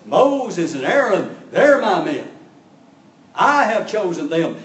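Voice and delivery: a loud, slow, commanding voice of God; God's voice. Retold or imitated. God rebuking the rebels, loud and slow. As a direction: boom it out as God defending his chosen men. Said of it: "And what God is saying is".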